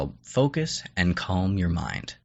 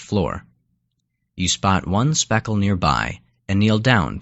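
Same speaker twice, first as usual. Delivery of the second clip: unhurried storytelling with pauses between phrases; guided imagery narration; 4 dB louder than usual. Acted. Narrator leading a listener along a mountain path, guided imagery narration. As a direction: guide the listener step by step, letting each image settle.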